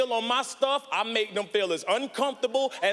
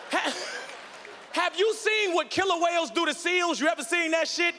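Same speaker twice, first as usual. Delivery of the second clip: worked-up rant; 4 semitones higher than usual. Real, not acted. Worked-up rant about killer whales.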